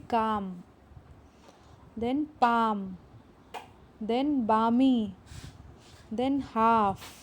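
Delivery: each word said slowly with the L dropped; silent L words. Shown as a demonstration. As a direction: drop the L in every word. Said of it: "अब आप लोग साथ में बोलिए".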